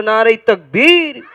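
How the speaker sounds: put-on slow, stretched call for the children to answer; teacher leading the children in a loud takbir; drawn-out loud call. Shown as a demonstration. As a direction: call out nice and slow for the response. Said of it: "দেখি জোরে বলো".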